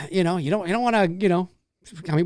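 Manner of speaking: usual speaking voice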